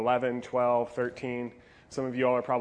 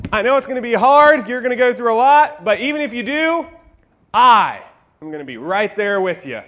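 much higher and louder, hyped up; a pumped soldier before battle, hollering; cocky Peter; 9 semitones higher, 16 dB louder than usual. Acted. Peter boasting to Jesus before the arrest, hyped shouting.

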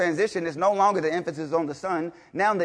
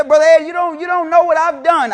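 higher and much louder plea; mock plea; 8 semitones higher, 9 dB louder than usual. Preacher imitating a member pleading with him, loud mock plea. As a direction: cry out like a guilt-ridden member.

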